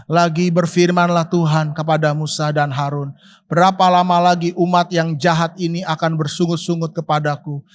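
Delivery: steady, solemn reading of Numbers; solemn Bible reading to the congregation; scripture reading. Acted. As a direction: read the verse like a formal proclamation. Reads scripture aloud.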